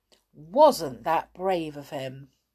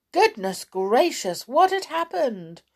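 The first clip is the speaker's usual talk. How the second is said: frightened; 9 semitones higher, 4 dB louder than usual. A narrator's reading. Sailor in fright.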